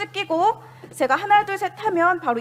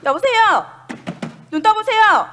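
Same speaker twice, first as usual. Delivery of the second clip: calling out; 4 semitones higher, 3 dB louder than usual. Pretend. Rescuer calls unresponsive patient.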